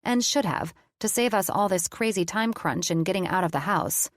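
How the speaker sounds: even, measured storytelling read; story narration. A narrator's reading. Narrator reading her romance novel aloud.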